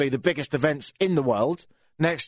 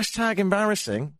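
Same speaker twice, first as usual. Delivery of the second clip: incredulous; 5 semitones higher than usual. Real, not acted. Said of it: "What's that about?".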